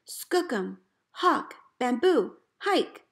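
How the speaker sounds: slow names rising into a high shouted hike; calling the team. Retold or imitated. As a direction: send the dogs running joyfully. Starting the team again.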